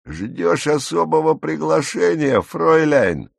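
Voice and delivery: mocking, pointed taunt; jeering bark. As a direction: jeer at her as a bully would. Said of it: "рявкнул глумливый голос".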